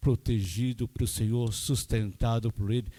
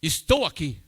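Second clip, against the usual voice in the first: shouted; 5 semitones higher, 4 dB louder than usual. Retold or imitated. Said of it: "Gritava bem alto".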